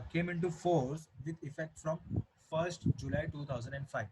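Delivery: slow, word-by-word reading of the date; dictating the date slowly to the class; slow dictation. Shown as a demonstration. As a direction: read it out slowly for notes.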